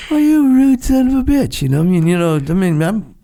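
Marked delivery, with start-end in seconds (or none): 0.1-1.6 much higher, louder indignant outburst; pissed off. Retold or imitated. Insulted sailor fuming at the rude SEAL: loud indignant outburst. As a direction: retell the insult with hot offended anger. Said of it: "pissed off".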